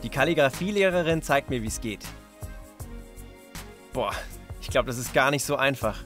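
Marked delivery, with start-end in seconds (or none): none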